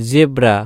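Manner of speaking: "জেব্রা" opened with a buzzing z; half j, as z. Shown as a demonstration. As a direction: model "জেব্রা" with z, not j. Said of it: "বর্গীয় জ এর উচ্চারণ অর্ধ".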